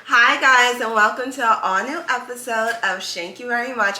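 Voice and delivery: lightly put-on podcast intro voice; fake host voice. Shown as a demonstration. Host greeting listeners to a new episode, in a fake voice. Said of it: "stop doing that fake voice".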